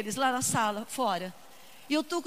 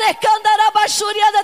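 speaking in tongues; 4 semitones higher, 9 dB louder than usual. Acted. Speaking in tongues mid-sermon.

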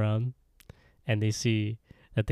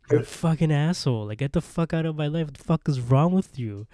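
retold rant, higher and quick; exasperated acted-out tirade; angry insults; 4 semitones higher, faster than usual. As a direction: hurl insults in a mock quarrel. Acted quarrel, hurling insults.

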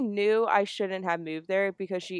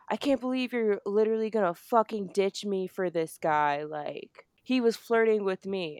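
higher-pitched mock outrage; imitated freak-out; 3 semitones higher than usual. Friend accusing her of ditching, mock freak-out. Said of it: "She starts freaking out and is like".

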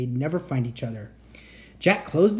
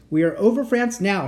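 mild mock shout; lightly raised call; 4 semitones higher, 4 dB louder than usual. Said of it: "shouted Teddy".

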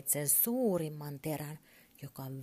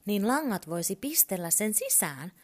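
excited; 4 semitones higher, 4 dB louder than usual. Acted. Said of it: "Turpo innostui".

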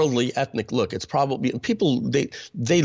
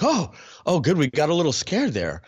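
higher-pitched, lightly acted relief; imitated relief; 5 semitones higher than usual. Staff reassured that dad isn't Haitian, imitated relief. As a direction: let the worry go with a quick "oh".

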